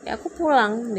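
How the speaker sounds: imitating husband walking off; mock curt husband; husband quitting. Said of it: "dia bilang gitu".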